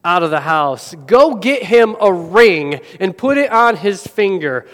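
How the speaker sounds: father calls the servants to fetch the robe, a lightly voiced shout; mock yelling father. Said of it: "the father is yelling out to his servants".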